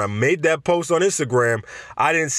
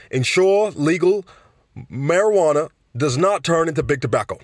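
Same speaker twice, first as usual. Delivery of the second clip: Bernie Sanders impression; 3 semitones higher than usual. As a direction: lightly put on the old senator's voice. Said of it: "as Bernie Sanders would say".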